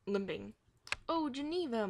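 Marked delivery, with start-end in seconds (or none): 1.1-1.9 moaning. A narrator's reading. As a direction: moan her name like you're hurt. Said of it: "Marcia moaned".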